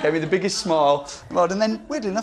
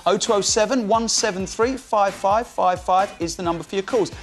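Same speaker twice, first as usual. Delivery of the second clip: slower, lifted trailer read; radio host teasing the next segment; show promo read. Acted. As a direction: sell the upcoming phone-in.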